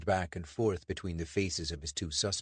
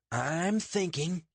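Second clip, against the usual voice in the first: growled; 10 semitones higher, much slower than usual. Acted. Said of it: "Richard growled".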